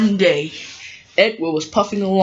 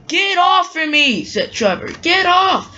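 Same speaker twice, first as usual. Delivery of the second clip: upset shout; 10 semitones higher than usual. Acted. Trevor pinned under Rosie.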